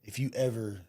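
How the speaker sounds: measured, restrained retelling of a threat; calm warning. Retold or imitated. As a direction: say it evenly, as a controlled warning. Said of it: "very calmly said".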